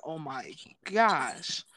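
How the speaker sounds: drawn-out, mildly overwhelmed imitation. Girl reading too many thoughts, slow mock-overwhelmed sigh of words. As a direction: stretch it out slowly, as if swamped. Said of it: "she was getting overwhelmed".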